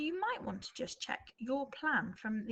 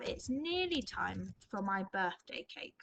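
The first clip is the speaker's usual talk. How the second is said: slow dictation; slower than usual. Shown as a demonstration. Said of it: "he's gonna have".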